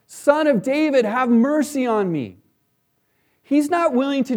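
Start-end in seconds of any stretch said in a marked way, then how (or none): 0.1-2.4 mock shout. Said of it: "He shouts".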